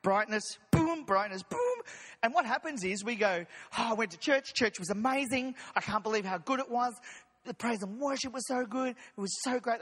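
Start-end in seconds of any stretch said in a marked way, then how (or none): 3.8-9.8 a mild gushing churchgoer imitation; hint of a starry-eyed congregant; congregation voice. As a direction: lightly gush like a happy churchgoer. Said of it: "That's my general congregation voice".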